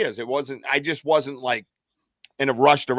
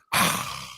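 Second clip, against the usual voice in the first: voiceless rush of breath imitating a growl; breathy, unvoiced creature noise; imitated growl from the thicket. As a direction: huff out an animal growl with breath only. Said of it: "like that".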